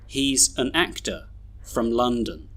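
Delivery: "an" and "from" weakened, "London" as LUN-dun; schwa weak forms. Shown as a demonstration. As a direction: model reading with "actor" ending in uh. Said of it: "read all these sentences with their schwas".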